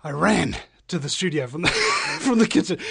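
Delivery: winded after running; breathless from the run; out of breath. Real, not acted. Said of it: "I'm totally out of breath".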